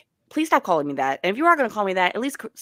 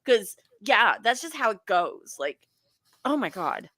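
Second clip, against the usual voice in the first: put-on Valley Girl voice; 2 semitones higher than usual. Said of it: "Super Valley Girl voice".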